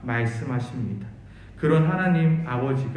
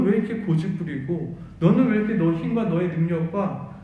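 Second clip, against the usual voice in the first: voice of God calling. Retold or imitated. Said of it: "말씀하고 있는 것입니다".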